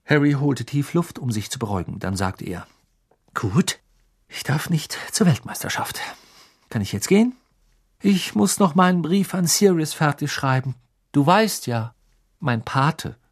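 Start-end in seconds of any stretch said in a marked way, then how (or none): 3.3-13.2 innocent provocation. Acted. Harry provoziert den Onkel.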